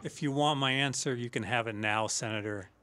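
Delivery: low, soft, measured mob boss; Michael Corleone impression. Shown as a demonstration. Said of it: "do Michael talking to the Senator Geary".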